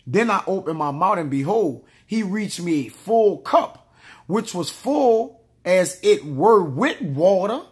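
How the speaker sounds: drawn-out, deliberate reading of the verse; slow solemn Bible reading; slow scripture reading. Acted. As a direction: let each word of scripture land. Reads scripture aloud, slower.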